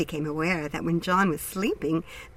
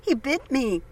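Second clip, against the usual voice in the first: sharp, high pained scream; 9 semitones higher, 3 dB louder than usual. A narrator's reading. Bitten girl screams at the dog's attack, high and loud. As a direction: scream out in pain at the bite. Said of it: "who screamed".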